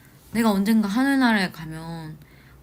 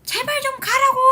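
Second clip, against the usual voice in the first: high, loud pleading yell; desperate shout; 5 dB louder than usual. Retold or imitated. Alone at home, shouting at the ghost to leave. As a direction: holler it at the empty house. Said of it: "소리를 질렀어".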